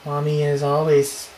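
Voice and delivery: put-on a slow, drawn-out eerie child-ghost voice. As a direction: read it like a ghost whispering from far away. Reading creepy ghost dialogue slowly.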